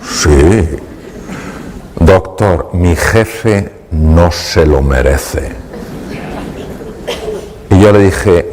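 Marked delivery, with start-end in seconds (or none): 0.0-5.5 claws out. Retold or imitated. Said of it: "Sacó uñas".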